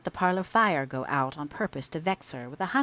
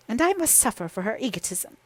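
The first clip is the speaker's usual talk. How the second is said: sobbing; 6 semitones higher than usual. Acted. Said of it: "she sobbed".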